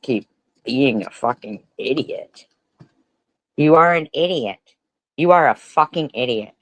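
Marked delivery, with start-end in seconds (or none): 3.6-6.5 angry outburst. Real, not acted. Daughter yelling at her mother.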